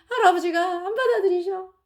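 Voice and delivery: put-on child near tears; tearful report. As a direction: voice catching with a sob. Daughter's seventh refusal report.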